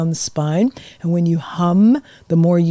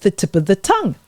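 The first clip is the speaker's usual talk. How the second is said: whispered twister; faster than usual. Shown as a demonstration. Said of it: "tongue twisters".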